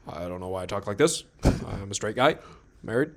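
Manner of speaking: halting phrases with upturned endings; lightly imitate, pausing between short chunks; Obama. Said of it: "started talking like Obama".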